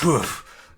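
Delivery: whoosh noise. Pretend. Game master sounding the party's quick turn, mimicked whoosh.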